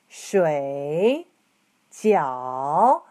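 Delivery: 水 and 饺 dip low then climb back up; 水饺, both syllables down and up; 水饺 with two full third tones. Shown as a demonstration. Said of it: "third tones".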